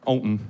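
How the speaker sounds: Ovnen dropped low like a game-show wrong-answer buzzer; buzzer-like Danish word. Shown as a demonstration. Comic shows how the Danish word for oven sounds. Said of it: "sound a buzzer makes in a game show".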